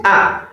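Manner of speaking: "Ah" as a simple open vowel, no throat squeeze; Alif with fatha. Shown as a demonstration. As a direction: model plain Alif "Ah". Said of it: "If you add Fatiha to Alif".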